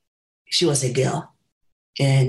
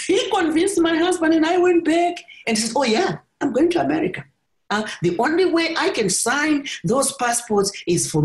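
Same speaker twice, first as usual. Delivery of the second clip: much higher, giggly retelling; still laughing; 14 semitones higher than usual. Real, not acted. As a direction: tell it still half laughing. Still amused retelling the trick.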